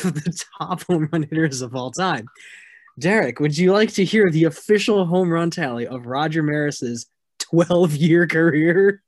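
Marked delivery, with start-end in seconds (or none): 3.0-9.0 teasing. Real, not acted. Teasing setup before fact check.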